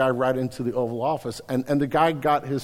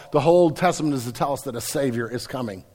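ordinary talk

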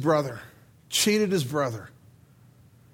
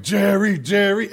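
louder call to break up a fight; 3 semitones higher, 5 dB louder than usual. Acted. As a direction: pull him off, shouting his name.

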